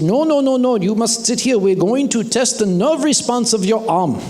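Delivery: lightly voiced insistent foreign doctor; imitating the doctor's stern instructions. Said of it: "He said".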